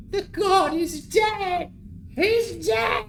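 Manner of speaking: goblin mob shout. Acted. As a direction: cry out the god's death as a mob. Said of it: "they all go".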